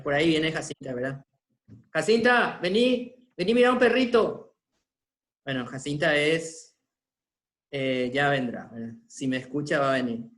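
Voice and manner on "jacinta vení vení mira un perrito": high, loud coaxing call to a pet; talking to a dog. Real, not acted. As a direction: coax the dog over, sing-song and bright. Calling his dog over.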